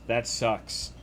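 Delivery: ordinary talk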